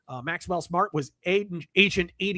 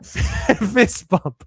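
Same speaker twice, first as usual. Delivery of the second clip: laughing through a louder fist bump; 2 semitones higher, 4 dB louder than usual. Real, not acted. To the author on screen, a laughing fist bump.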